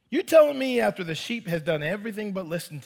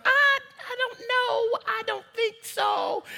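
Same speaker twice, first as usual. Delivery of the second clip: reluctant self; 13 semitones higher, 5 dB quieter, slower than usual. Retold or imitated. His reluctant reply.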